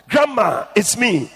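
high, called out to grandma; shouting to grandma. A narrator's reading. Grandson shouting to grandmother in hell, high call. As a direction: call out in astonishment. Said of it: "I shouted out to her".

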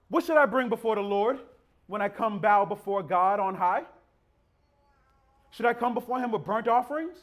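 mock-earnest questioning of God; sarcastic. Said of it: "Y'all hear the sarcasm now".

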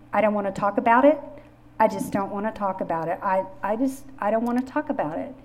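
blunt refusal. Retold or imitated. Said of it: "she's that kind of very direct person".

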